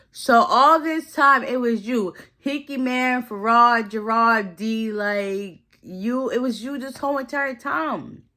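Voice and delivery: high, drawn-out mock outrage; indignant accusation. Imitating Joan confronting over the wallet, indignant.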